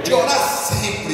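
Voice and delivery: loud, slow call for the church to repeat. Shown as a demonstration. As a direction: lead the response, loud and slow. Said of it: "Repete assim comigo".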